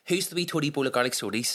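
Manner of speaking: imitated West Belfast waitress; West Belfast accent. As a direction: run it together in broad West Belfast. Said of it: "West Belfast way of saying soties".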